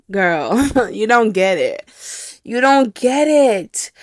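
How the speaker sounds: slow, drawn-out exasperation with a laugh; exasperated retort. Retold or imitated. Telling the French teacher he doesn't get it, exasperated. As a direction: stretch it out slowly, half laughing.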